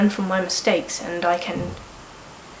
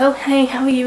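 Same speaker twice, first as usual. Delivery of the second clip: customer service voice; 5 semitones higher, 4 dB louder than usual. Retold or imitated. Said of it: "my customer service will come out".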